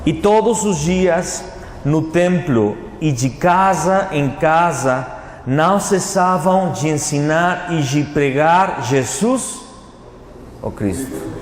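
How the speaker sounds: slow, measured Bible reading; scripture reading. Acted. Preacher reading a verse to the congregation, slow scripture reading. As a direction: read the verse out slowly, phrase by phrase.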